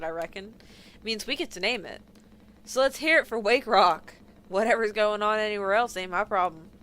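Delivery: lightly voiced stubborn old Southerner; dismissive drawling old captain; gruff old Southern captain. Voicing Swansea the captain.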